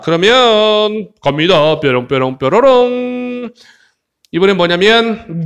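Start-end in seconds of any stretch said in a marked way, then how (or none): 1.8-3.5 sing-song sparkle noise, drawn-out last note; playful magic chime. Pretend. Teacher launching the next exercise, playful chime noise. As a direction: chime like a magic wand, holding the end.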